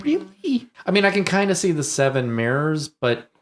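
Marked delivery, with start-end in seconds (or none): 0.0-0.7 slow, high-pitched doubting question; skeptical disbelief. Real, not acted. Host doubting the director's claim of accident, skeptical. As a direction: stretch it out, not buying it. Scoffing at filmmakers' denial.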